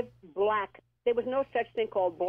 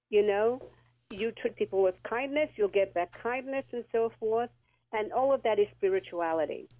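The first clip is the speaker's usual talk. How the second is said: talking with a swollen lip. Real, not acted. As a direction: lips puffy and sore. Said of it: "my lip is swollen".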